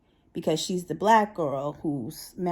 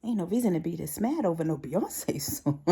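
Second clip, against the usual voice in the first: amused disbelief. Retold or imitated. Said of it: "I was like".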